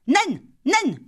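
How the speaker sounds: put-on repeated high child call; child's cry. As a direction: call her twice, urgently, like a little girl. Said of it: "cria Lali".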